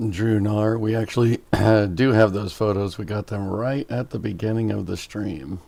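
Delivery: hoarse, croaky throat. Real, not acted. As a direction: talk through a croaky throat. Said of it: "croaky voice".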